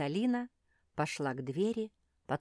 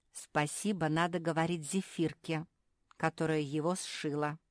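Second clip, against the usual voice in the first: mild grumble. Acted. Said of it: "проворчала Капитолина".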